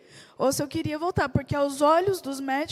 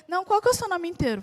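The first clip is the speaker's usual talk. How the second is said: quick, higher-pitched mock insistence; insistent retold question; 4 semitones higher, 3 dB louder, faster than usual. Man presses patient for her full name, mildly insistent. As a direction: imitate someone pressing the question, fast and raised.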